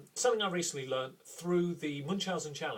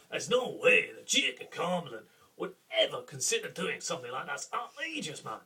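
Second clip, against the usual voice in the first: lightly done brash Scottish accent; outraged duke in a light Scottish accent; 3 dB louder than usual. Shown as a demonstration. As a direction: flick back into a Scottish character. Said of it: "wavering out of the accent".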